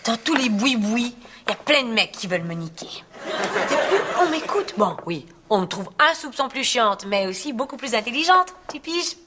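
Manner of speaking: self-satisfied put-on Parisian French; affected Parisian accent. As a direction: defend yourself in a fake Paris accent. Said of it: "depuis que j'ai l'accent".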